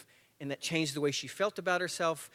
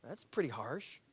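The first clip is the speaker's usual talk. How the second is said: taken aback; 3 semitones lower, 6 dB quieter than usual. Retold or imitated. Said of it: "And I was like".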